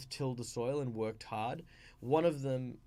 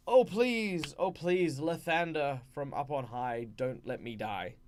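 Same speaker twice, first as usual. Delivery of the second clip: half-hearted begging to a god; mock desperate plea; 4 dB louder than usual. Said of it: "if someone were to say".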